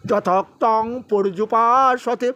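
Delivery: slow, measured chanting of scripture; Sanskrit verse recitation. Acted. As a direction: intone each verse with pauses. (ধীর লয়ে শ্লোক পাঠ)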